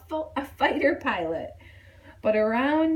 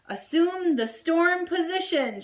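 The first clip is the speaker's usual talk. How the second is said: higher doll issuing orders; bossy command; 8 semitones higher than usual. A narrator's reading. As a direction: command like a drill instructor. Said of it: "she cried".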